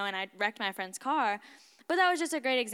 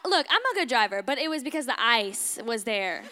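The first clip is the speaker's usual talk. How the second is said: ordinary talk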